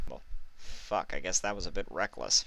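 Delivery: quiet rueful mumble; mumbled. A narrator's reading. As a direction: mutter under your breath. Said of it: "she mumbled".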